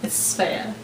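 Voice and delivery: said quietly and unvoiced, barely a breath: "It's Savea."; a near-whispered correction. Wife showing how softly she really said her name, quiet and breathy. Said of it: "It was probably more like".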